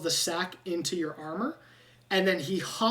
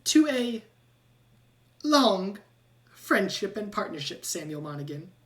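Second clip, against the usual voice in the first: toasting rat; 2 semitones higher than usual. Acted. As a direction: raise a toast to a new partner. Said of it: "and he goes".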